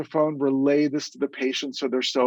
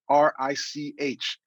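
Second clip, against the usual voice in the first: spelling it out; slower than usual. Shown as a demonstration. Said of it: "My personal email address is Rich".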